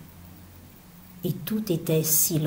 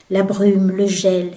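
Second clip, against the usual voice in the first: "la brume" repeated, louder; "la brume" said again with more force; louder echo; 5 dB louder than usual. Acted. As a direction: swell on the second "la brume". Repeated phrase, second take swells.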